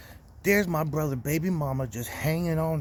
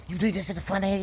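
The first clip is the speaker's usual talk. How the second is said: higher mocking shout of a drunk woman; mock angry yell; 6 semitones higher than usual. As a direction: imitate her yelling in a half-hearted put-on voice. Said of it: "She starts screaming and yelling".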